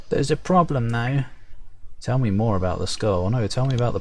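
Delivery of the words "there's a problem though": lightly raised perky sprite voice; a bit higher, chirpy warning. Acted. Sprite raising a problem, lightly perky. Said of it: "perky, high-pitched voice".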